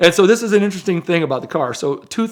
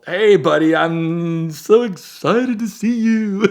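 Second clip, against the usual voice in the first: mock enthusiasm; 5 semitones higher, slower than usual. Sarcastic fake enthusiasm about friend.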